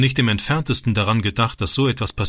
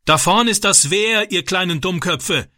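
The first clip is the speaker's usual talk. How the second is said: bellowing; 7 semitones higher than usual. A narrator's reading. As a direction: yell a warning at the foolish boys. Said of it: "brüllte der Mann".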